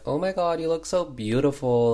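high-pitched imitated admiration; mock gushing. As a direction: gush over a bride, play-acted. Relatives gushing over the bride.

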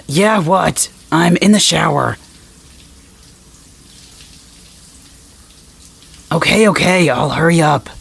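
calling out through the door; shouting from the shower. Acted.

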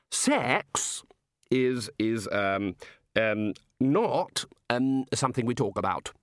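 halting, um-filled explanation; embarrassed hesitation. Acted. Ridcully telling the god it's not discussed, awkwardly. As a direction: feel your way through an awkward subject.

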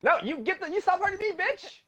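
high-pitched yell at the game. Real, not acted. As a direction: shout it out in mock outrage. Angry gamer yelling at opponent.

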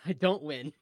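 laughing through the words. Real, not acted. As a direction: chuckle it out while admitting defeat. Player laughing at failed roll.

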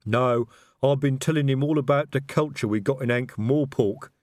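troll speaking airily; airy troll voice. A narrator's reading. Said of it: "said Detritus airily".

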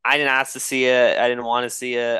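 loud, stumbling denial; real defensive insistence; defensive protest. Real, not acted. Defends himself against the accusation.

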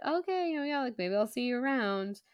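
imitated awkward goodbye. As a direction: back out of the chat in a high, noncommittal tone. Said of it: "And he's all like".

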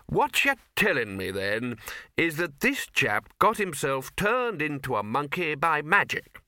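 blustering Arch-Chancellor. Acted. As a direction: spell it out with gruff disbelief.

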